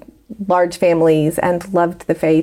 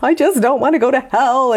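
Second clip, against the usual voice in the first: retold sobbing plea; 6 semitones higher than usual.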